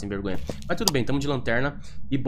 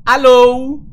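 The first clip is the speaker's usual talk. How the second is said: loud drawn-out hello; calling out; 10 semitones higher, 13 dB louder than usual. Real, not acted. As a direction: call out loudly into the house. Calling out to the ghost.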